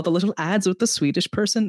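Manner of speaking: a light, bad Swedish accent on the words; lightly put-on Swedish accent, done badly; half-hearted Swedish accent from an ad; terrible Swedish accent. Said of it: "That was a terrible Swedish accent".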